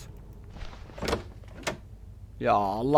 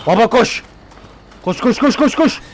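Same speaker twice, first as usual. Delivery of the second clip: urgent urging; 5 semitones higher than usual. Real, not acted. Running from monster in game.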